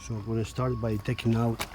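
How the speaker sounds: lying under a car. Real, not acted. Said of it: "I'm out of the car now".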